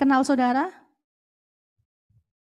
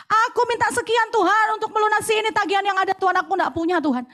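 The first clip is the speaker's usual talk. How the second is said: kitchen prayer. Retold or imitated. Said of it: "Aku cuman ngomong di dapur".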